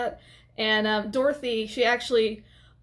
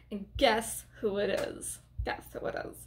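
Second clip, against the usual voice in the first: teasing hush; 3 semitones lower, 7 dB quieter than usual. Real, not acted. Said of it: "teasing build-up".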